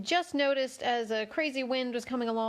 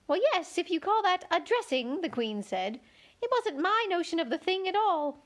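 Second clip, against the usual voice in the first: high, fussy White Queen; 7 semitones higher than usual. A narrator's reading. Queen corrects Alice in a high fussy voice. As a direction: pitch the Queen up high and flustered.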